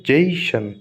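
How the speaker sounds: जेशन with a drawn-out "जे"; stress before final syllable. Shown as a demonstration. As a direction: lean long on the "जे" in जेशन, falling on "शन". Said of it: "शन से just पहले वाले". (जेशन में "जे" पर खींचकर ज़ोर)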